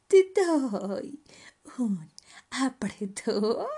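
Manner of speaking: loud, slow, sly offer; stretched hyena words after a cackle; drawn-out playful hyena; hyena character. Acted. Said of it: "dijo Hiena con su risa ahogada".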